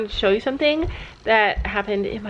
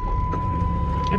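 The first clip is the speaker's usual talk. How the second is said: 1 playful squeak; 4 dB quieter than usual. Real, not acted. Playful to daughter.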